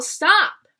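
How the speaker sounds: sudden sharp shout of stop; mild shout. Acted. The tree almost shouting at the boy, a sharp stop. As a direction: shout it out, then swallow it.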